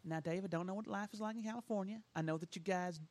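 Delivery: mock a pious Texan, hushed; Southern Baptist voice. Lecturing Californians in a light Southern Baptist voice. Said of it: "my Southern Baptist voice".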